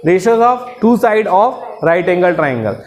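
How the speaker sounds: drawn-out chanted definition, very slow; slow recitation. Shown as a demonstration. Teacher reciting the definition for students, slow chant. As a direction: recite it slowly for the class to repeat.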